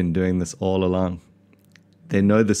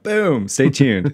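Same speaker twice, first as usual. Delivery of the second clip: high, loud hammed-up sign-off; mock hype; 6 semitones higher, 4 dB louder, much slower than usual. Father capping the mock intro with loud hype. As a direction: punch it like a cheesy host.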